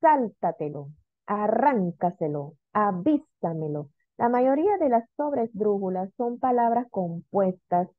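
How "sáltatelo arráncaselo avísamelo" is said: Sáltatelo, arráncaselo, avísamelo stressed on SÁL, RRÁN, VÍ; teacher listing Sáltatelo, arráncaselo, avísamelo, stressing SÁL, RRÁN, VÍ; sobresdrújula stress demo. Shown as a demonstration. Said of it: "Vamos a ver la sobresdrújula".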